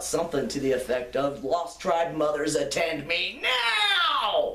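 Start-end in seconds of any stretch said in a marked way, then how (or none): 1.4-4.6 put-on belted herald's call, drawn out, rising, swooping. Retelling calling out for a lost boy's mothers at a camp, in a belted heraldic voice. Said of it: "in my best heraldic voice belted out".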